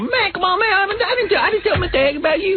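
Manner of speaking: very high put-on Black American accent; black-guy impression. Shown as a demonstration. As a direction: plead high in a rusty Black American imitation. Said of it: "how good a black impression".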